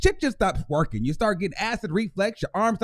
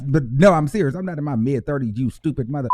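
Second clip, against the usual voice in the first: mock insult; 5 semitones lower than usual. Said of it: "I'm just kidding".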